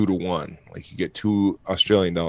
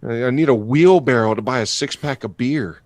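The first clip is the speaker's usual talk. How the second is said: mock shock; 5 semitones higher than usual. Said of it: "I'm like".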